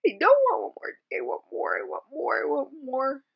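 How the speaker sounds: high, pleading cry of anger; angry outburst. Retold or imitated. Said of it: "I was getting so angry".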